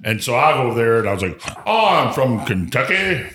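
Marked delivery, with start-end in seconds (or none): 1.7-3.2 slow, lofty Kentucky bourbon judge; snooty bourbon-snob voice. Retold or imitated. A salesman's Kentucky stranger putting on airs at the bar. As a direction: play the haughty Kentuckian demanding a swig. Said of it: "in that voice".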